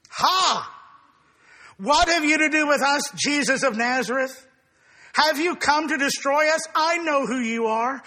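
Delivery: preacher voicing the terrified demon before Jesus; terrified demon cry. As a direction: cry out like an evil spirit caught in terror. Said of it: "is an exclamation of terror".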